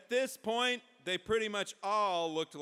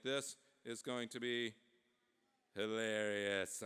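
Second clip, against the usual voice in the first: low, stretched-out relish; gleeful relish; 5 semitones lower, slower than usual. Acted. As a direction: savour "hilarious" slowly. Sacagawea relishes the spectacle.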